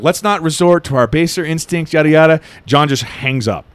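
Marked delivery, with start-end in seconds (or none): 0.0-2.4 placating villain. Retold or imitated. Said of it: "kinda placating towards him".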